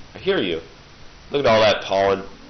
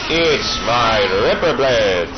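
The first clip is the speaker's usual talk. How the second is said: villain taunt; 5 dB louder, slower than usual. Pretend. Taunting enemies while attacking.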